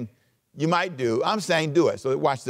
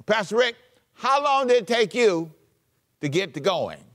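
much higher, curious question voice; asking congregant; 7 semitones higher than usual. Retold or imitated. Congregant asking the pastor, higher and curious. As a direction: play the eager asker. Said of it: "a question you might ask me".

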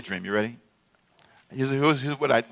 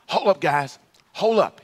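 imitated call-out; 7 semitones higher, 5 dB louder, slower than usual. Acts John halting the game.

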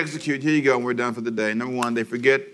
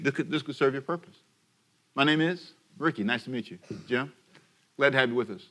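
salesman voice; 4 dB quieter than usual. Retold or imitated. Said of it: "a classic mistake you make with a salesman".

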